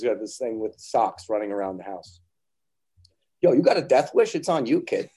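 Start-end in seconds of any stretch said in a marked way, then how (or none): 3.4-5.1 louder, higher teasing dad threat; mock stern warning. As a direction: warn the kid with cocky bravado. Dad scolding daughter on stairs.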